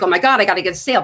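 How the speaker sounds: fast, rattled-off inner voice; panicky seller. Acted. Salesperson to self under quota pressure, rushed and panicky. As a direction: blurt it out in a rush. Acting out a sales-desperate thought.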